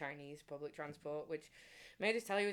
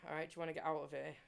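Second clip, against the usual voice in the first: quick English pickup line; much faster than usual. Retold or imitated. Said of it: "So in England".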